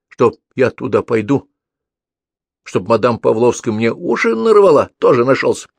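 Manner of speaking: loud defiant little brother; defiant kid. A narrator's reading. Pavlik defiantly shouts at his older brother. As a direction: shout back like a stubborn kid.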